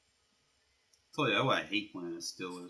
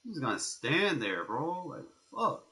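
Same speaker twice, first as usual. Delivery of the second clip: raging gamer; 8 semitones higher, 6 dB louder than usual. Real, not acted. Gamer venting at his player.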